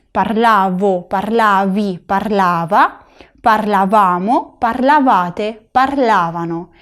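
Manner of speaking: slow drill from "Parlavo" to "parlavano", every v teeth on lip; Italian v, never b, in "parlava"; clear v pronunciation. Shown as a demonstration. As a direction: conjugate "parlavo, parlavi" slowly, stressed vowels stretched. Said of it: "la pronunciación de la V".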